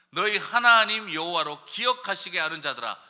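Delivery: scripture reading. Acted.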